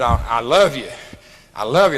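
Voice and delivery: a low, sincere declaration of love; to the old gal: a low, heartfelt I love you; deep and heartfelt. Retold or imitated. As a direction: say it with deep, earnest feeling. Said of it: "said it with so damn much depth".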